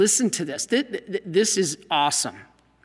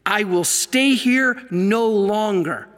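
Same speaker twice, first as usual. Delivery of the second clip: slow, firm declaration, each word weighted; Jesus quoted as declaring he will leave, a firm exclamation; exclaimed; slower than usual. Retold or imitated. Jesus refusing to stay, read slowly as an exclamation. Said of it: "with an exclamation point".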